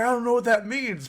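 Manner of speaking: high, loud mock-naive protest; clueless retort. Goku answering the shouting radio, high clueless retort.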